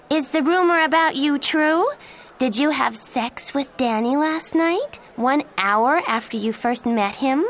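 high, loud, accusing voice; angry. A narrator's reading. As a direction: hurl the questions at her loudly. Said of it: "Miranda said angrily".

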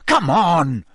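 fierce. Acted. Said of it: "Harry said fiercely".

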